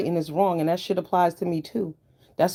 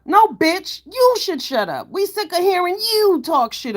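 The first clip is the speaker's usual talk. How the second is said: angry comeback; 11 semitones higher than usual. Real, not acted. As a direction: fire it right back at him. Snapping back at harasser.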